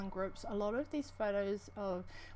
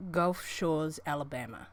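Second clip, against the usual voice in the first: deliberate New Zealand delivery, dropping lower at the end; own New Zealand accent on request; 5 semitones lower than usual. Shown as a demonstration. Streamer obliging a viewer's request in her New Zealand accent. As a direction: say it carefully in a New Zealand accent, pitch falling. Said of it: "Chris has asked me to say a sentence".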